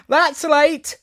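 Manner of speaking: high, loud, very slow haughty flower; grand proud flower voice; tiger lily voice. Acted.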